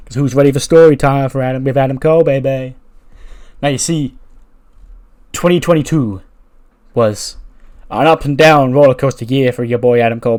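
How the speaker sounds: loud wrestling promo delivery; Adam Cole. Acted. Wrestler telling the crowd his story of the year, loud promo voice. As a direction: play the showman on the mic, punching key phrases loudly.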